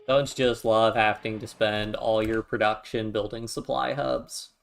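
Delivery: dry, mock-cheerful complaint; sarcastic. Real, not acted. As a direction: drip with sarcasm, lightly. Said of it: "He said sarcastically".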